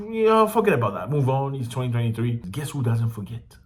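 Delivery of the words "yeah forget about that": sarcastic. Real, not acted. Sarcastic mimicry.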